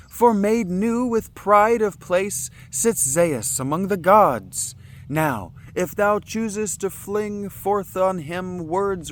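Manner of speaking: loud, high, slow solemn warning; regal counsel. Acted. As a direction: warn him gravely from on high. Oceanus warning in reading.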